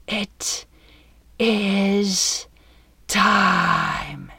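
slow, spaced rumbling dragon words. Acted. Dragon Sinkaraz speaking down to the captain, stormy rumble. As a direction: boom out each word like a storm. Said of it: "like wind, thunder, and rain combined".

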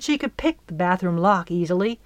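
usual speaking voice

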